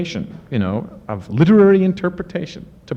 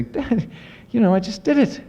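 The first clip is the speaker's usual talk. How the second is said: much higher, half-hearted mock outcry; mock rock-star scream; 11 semitones higher than usual. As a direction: lightly cry out, pretending to plead with Dad. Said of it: "I wanna scream out like a famous singer".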